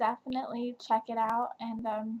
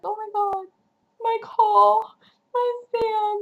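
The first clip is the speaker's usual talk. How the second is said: higher, gushing mock swoon over the names; swooning fangirl; 10 semitones higher, 4 dB louder than usual. Reader mocks her own new devotion to Cole, higher swooning gush. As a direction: gush over them like a smitten fan. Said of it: "now it's like".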